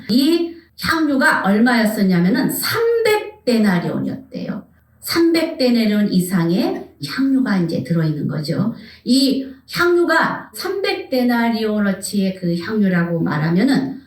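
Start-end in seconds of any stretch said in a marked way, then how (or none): none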